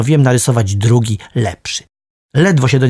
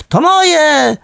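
put-on sharp kid's protest, pitched way up; shout; 14 semitones higher than usual. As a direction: yell it, grabbing back what's yours. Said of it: "wrzasnął".

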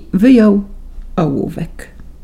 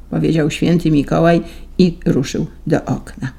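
ordinary delivery, nothing marked

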